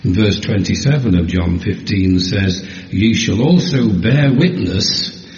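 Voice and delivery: slow, measured Bible reading; scripture reading. Acted. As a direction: read the verses with weight. Reads John fifteen.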